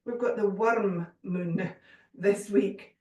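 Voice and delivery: slow, laughing mock Scottish accent. Shown as a demonstration. Yoga teacher joking to her class, in a playful mock Scottish accent. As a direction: roll out worm moon in a jokey Scottish accent. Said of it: "I'm gonna say this with a very Scottish accent".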